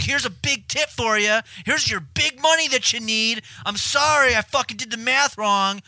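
loud, high sarcastic tirade; retold yelling rant. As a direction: lay into her with mock apology. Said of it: "I just fucking laid into her".

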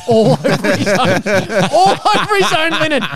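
can't get it out for laughing; cracking up while telling the story. Real, not acted. Laughing through the story climax.

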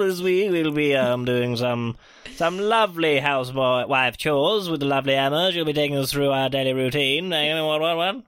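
lightly voiced fifties radio host; a hint of old-time radio presenter; 1950s announcer. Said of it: "a fucking nineteen fifties announcer there".

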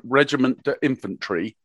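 put-on says Regiment de Infantry in a jokey French accent; mock French accent. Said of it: "that's my French accent".

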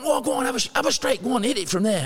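imitating coach. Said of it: "He goes".

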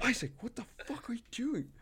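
high, exasperated demand; disbelieving, scolding him; exasperated yell. Retold or imitated. Friend yelling at Isaac for not reacting, exasperated.

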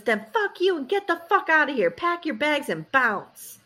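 mock kicking someone out mid-fight; retold angry dismissal. Retold husband in a quarrel.

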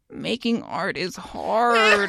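slow, drawn-out condescending sneer, laughing through it; mock-pitying, patronizing singsong; demeaning voice. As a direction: talk down to them like a snooty critic. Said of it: "I say it in the most demeaning voice".

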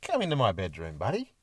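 imitating S1. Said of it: "and said".

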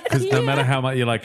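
ordinary talk, nothing marked

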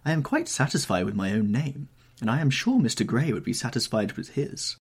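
a hint of a self-assured Duchess; Duchess's reply.

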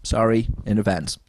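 put-on Michael Bay apologising before his trailer in a light American accent. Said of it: "it's just an American accent".

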